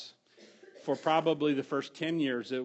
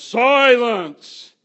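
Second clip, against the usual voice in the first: huge thundering shout of Silence, far higher and louder; booming Oz; 8 semitones higher, 15 dB louder than usual. Retold or imitated. Preacher voicing the Wizard of Oz to the Lion, thundering shout. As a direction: blast it like the terrifying wizard. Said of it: "Oz all of a sudden goes".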